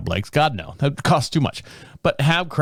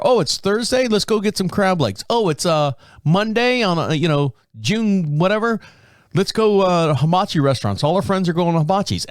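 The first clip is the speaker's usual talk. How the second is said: imitating eager wife; 5 semitones higher than usual. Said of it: "wife's past suggestions".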